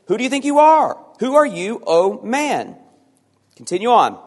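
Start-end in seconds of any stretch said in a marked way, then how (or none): 0.0-2.8 high, loud rebuke; indignant question. Acted. Paul rebukes the objector, loud and high. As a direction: demand it with indignation. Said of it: "Paul says".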